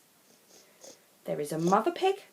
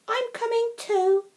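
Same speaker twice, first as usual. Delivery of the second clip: high, louder eager call; eager child; 6 dB louder than usual. Acted. Poppy eagerly insisting on joining the farmer in the ditch. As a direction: jump in keenly.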